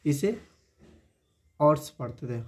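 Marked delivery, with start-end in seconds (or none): 1.6-1.9 हॉर्स with the h dropped, "awrs"; mispronunciation. Retold or imitated. Teacher imitates students' mistake on हॉर्स, h dropped. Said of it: "इसे क्या पढ़ देते हैं".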